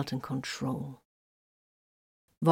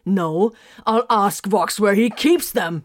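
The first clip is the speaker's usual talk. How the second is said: loud, slow, higher roar; 5 semitones higher, 8 dB louder, slower than usual. A narrator's reading. Space Wolf roars back at Titus. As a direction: roar it out slowly. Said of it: "Grimfang roared".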